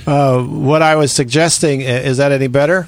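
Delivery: muffled, as if through a hand. Real, not acted. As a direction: still muffled voice. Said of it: "No, for some reason".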